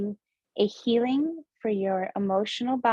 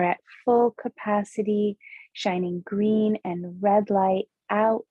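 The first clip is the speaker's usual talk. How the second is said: measured visualization voice with lingering pauses; guided meditation. Acted. Host has listeners picture glowing body outline, unhurried meditation delivery. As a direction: guide them through the image phrase by phrase.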